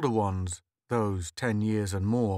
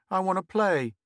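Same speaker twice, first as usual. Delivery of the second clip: put-on pleading boy; 9 semitones higher, 4 dB louder than usual. Boy asking to join.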